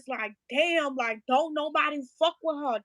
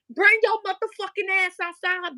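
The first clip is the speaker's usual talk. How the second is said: higher-pitched retold challenge; re-enacted angry demand; 4 semitones higher than usual. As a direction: call them out angrily, as retold. Re-enacts yelling at the window.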